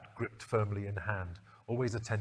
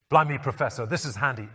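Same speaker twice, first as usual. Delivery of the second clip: pleased remark; 4 semitones higher, 7 dB louder than usual. Acted. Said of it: "Ace remarked".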